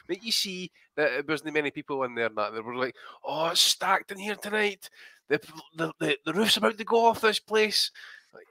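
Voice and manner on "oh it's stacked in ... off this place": slow, higher mock announcer voice, drawn out; mock hype commentator. Mocking the arena commentators about the empty venue, hammed-up announcer. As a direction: ham up the ringside hype like a TV commentator.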